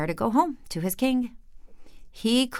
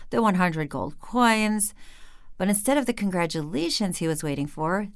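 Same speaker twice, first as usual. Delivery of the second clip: plain reading voice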